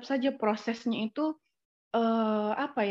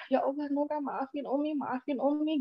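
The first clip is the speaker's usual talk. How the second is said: slightly higher, softened pleading; tender, repeated apology in a raised pitch; retold remorseful apology; 3 semitones higher, 3 dB quieter than usual. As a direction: act out begging a baby's forgiveness. Reenacts apologising to her baby.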